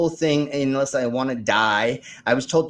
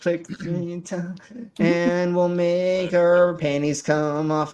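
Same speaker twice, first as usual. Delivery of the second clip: slow, higher announcer voice; fighting game announcer; 4 semitones higher, much slower than usual. Acted. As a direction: draw it out like a ring announcer. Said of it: "doing this announcer voice the whole night".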